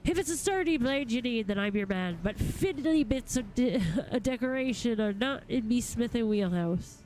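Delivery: lightly voiced rough-spoken smith, balking; a hint of grumbling reluctance; cranky smith. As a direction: play a blunt craftsman admitting his limits. Reads a grumpy smith's dialogue.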